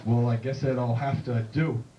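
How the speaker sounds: slow, low movie-cowboy drawl; John Wayne. Acted. John Wayne asking a bartender, slow drawl. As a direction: drawl it slowly like a Western star. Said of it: "He's like".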